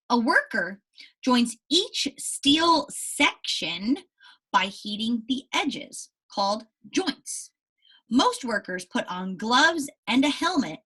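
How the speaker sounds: slow, careful read-aloud narration; story reading. Acted. Teacher reading the ship story to her class, slow narration. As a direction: read each phrase clearly for young listeners.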